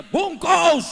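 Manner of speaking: sudden loud high shout of the word; loud call. Shown as a demonstration. Preacher tells the crowd to shout "Bungkus" at the arrogant, loud. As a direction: hurl the word at them. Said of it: "bilang sama dia".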